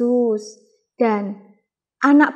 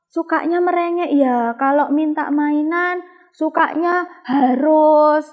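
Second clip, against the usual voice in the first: put-on higher, pleading little-child voice; child's prayer; 5 semitones higher than usual. Teacher voicing a child praying to God to stop getting angry, higher and pleading. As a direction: pray like a small child asking God for help. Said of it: "Misalnya lagi".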